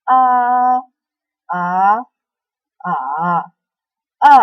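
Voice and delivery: "A" four times: level, rising, dipping, falling; four tones in a row. Shown as a demonstration. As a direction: run "A" through tones one to four in order. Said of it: "saya akan lafalkan secara bersamaan".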